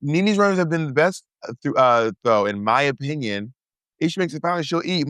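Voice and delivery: high mocking imitation of a friend's comment; high teasing imitation; mocking quote. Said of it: "You were like".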